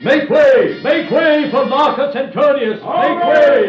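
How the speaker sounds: high, loud proclamation clearing a path; herald's call. Acted. Herald crying out to clear the way, loud. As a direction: cry out to clear the way for the general. Herald announcing Antony's arrival.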